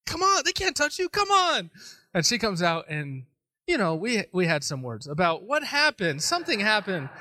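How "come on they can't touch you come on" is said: high, raised-voice urging; loud, exasperated coaxing; urgent calling out. Retold or imitated. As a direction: call your wife out of the corner. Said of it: "I'm just going".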